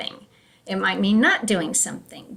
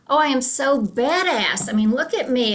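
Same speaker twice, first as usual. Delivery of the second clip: playful, higher-pitched boast; mock bragging; 3 semitones higher than usual. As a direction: brag like you're proud of yourself, tongue in cheek. Mocking own past bragging.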